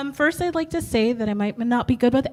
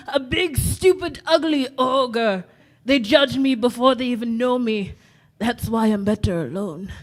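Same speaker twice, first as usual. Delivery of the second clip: put-on wounded Scottish-accented ogre; lightly voiced ogre, sinking into hurt; Shrek. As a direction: grumble it, easing down at the end. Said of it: "as Shrek from Shrek".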